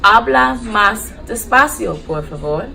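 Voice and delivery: slow, careful Spanish teaching phrase; slow language demo. Shown as a demonstration. Nurse teaching how to ask a patient to slow down, slow demo. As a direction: model it slowly for learners.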